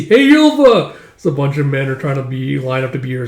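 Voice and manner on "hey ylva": loud, high-pitched hail; calling out. Acted. Suitor hailing the young woman, calling out. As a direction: call eagerly across to her.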